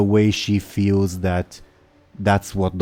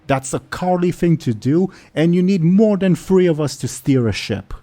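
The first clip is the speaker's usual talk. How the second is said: lightly voiced indignant old orc; higher, scolding the whole crew; 9 semitones higher, 4 dB louder than usual. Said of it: "says the old orc".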